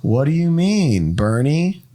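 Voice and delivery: slow, lightly voiced line-feeding; understated, unhurried screen-test reader; producer reading lines. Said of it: "the producer talking is how David did".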